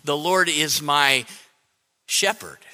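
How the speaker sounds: low lead-in, a beat, then "shepherd" by itself; stress on SHEPHERD. Shown as a demonstration. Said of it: "not my dictator, not my lawyer".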